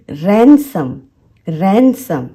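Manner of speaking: रैनसम as "ran-sum"; teacher's model of रैनसम, n into s; silent D. Shown as a demonstration. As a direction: say रैनसम carefully with no D after n. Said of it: "इसमें डी silent है".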